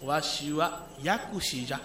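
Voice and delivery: low, slow, quiet deity voice; creaky wise old man. Acted. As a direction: intone it slowly like an old god.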